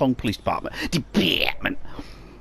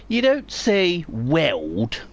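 mock posh correction, slow; lightly posh, drawn out; posh headmaster; much slower than usual. Headmaster correcting cockney pupils in mock posh accent. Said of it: "He said".

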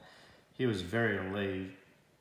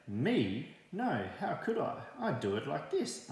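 hare voice; 6 semitones higher than usual. Acted. Hare answers, squeaky high.

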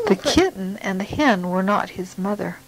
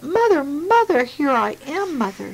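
calling out; 6 semitones higher than usual. Acted. Baby bird calls to big thing.

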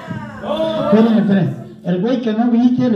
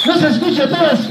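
shouting; 5 semitones higher than usual. Real, not acted. Host rousing the crowd.

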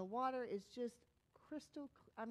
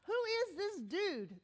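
high, loud, hammed-up alarm; mock terrified; 6 semitones higher, 4 dB louder than usual. Disciples freaked out by Jesus, mock terrified. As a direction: play freaked-out astonishment. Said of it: "it says they're terrified".

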